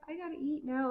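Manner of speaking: high, whiny I-need-food plea; mock whiny hunger. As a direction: whine it up high like you're starving. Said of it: "and I'm like".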